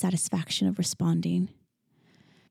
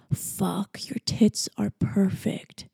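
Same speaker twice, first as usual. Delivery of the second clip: groaning; 3 dB quieter, much slower than usual. A narrator's reading. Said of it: "he groaned".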